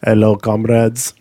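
slow put-on Russian accent. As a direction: try out a mock Russian accent, slowly. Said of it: "better for your Russian accent".

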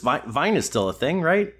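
mock-innocent sarcastic question. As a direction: ask it with dry sarcasm, rising at the end. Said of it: "He said sarcastically".

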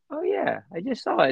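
high, bright "Oh yeah" then quick; mock surprised "Oh yeah"; excited recognition. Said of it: "it's just like".

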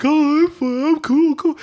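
high, airy impression of the careless cousin; high breezy mock cousin voice; carefree cousin. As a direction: toss it off like nothing's wrong.

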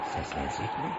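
whispered, hushed question. Acted. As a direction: ask under your breath by the body. Near the dead man, hushed.

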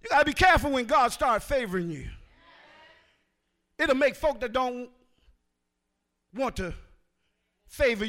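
preacher raising the roof; say it loud. Real, not acted. Preacher to the congregation, shouted loud. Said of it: "Let me say it loud".

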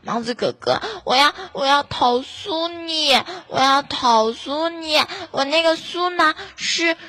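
sulky fan whining at the moderator; whiny fan. Pretend. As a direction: play a pouting fan who feels ignored. Voicing a fan complaining.

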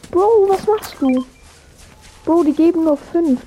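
high, slow disbelieving complaint; incredulous. Real, not acted. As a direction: ask in disbelief. Reacting to wasted pizzas. (ungläubig)

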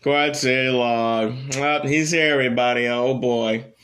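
slow, drawn-out announcer intro, hammed up; mock showman announcing his own name; mock grand intro. Shown as a demonstration. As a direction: parody a pompous self-introduction.

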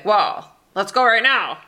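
loud, abrupt mimicked rallying call; mock eager urging. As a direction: imitate someone springing a plan on you. Mimics husband's sudden morning plans.

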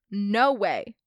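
mock yell of a scandalised counselor; loud but half-hearted retold scream. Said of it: "his counselor screamed at him".

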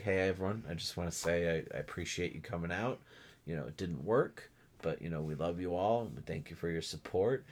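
mild impression of a sincere groom; soft imitated speech. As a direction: mimic him humbly thanking the guests. Imitating Kenny's speech at altar.

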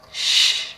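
playful shush. A narrator's reading. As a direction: shush a friend through a grin. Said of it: "Rhea said to Iolo, but she was grinning".

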